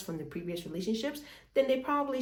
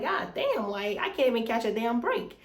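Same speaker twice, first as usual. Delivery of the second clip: exasperated; 4 semitones higher than usual. Retold or imitated. Voicing Sweet Tea's frustration, a mild exasperated whine. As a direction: sigh it out as if fed up.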